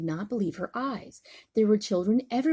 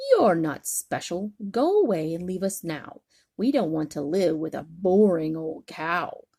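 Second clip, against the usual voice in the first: rude dismissal; 5 dB louder than usual. Acted. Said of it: "but not very nicely".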